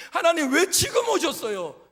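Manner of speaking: 높고 크게 하나님께 따지기; 왜에 힘주어 크게 항의하듯; 투덜대며 따지기. Acted. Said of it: "라고 투덜거리는 모세의". (하나님께 투덜대며 크게 따지는 모세)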